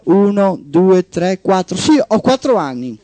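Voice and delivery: lightly voiced small girl; a hint of a four-year-old on the phone; little girl counting. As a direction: spell out each number like counting fingers. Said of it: "la vocina compitò".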